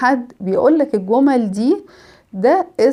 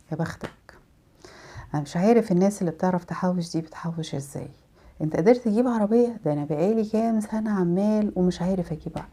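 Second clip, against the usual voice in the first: envious sulk; 2 semitones lower, 7 dB quieter than usual. Retold or imitated. Envious person reacting.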